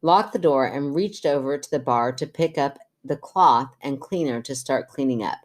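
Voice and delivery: measured podcast story reading; even-paced reader's voice; reading letter aloud. Acted. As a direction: read a listener's letter out clearly. Reads listener's letter aloud.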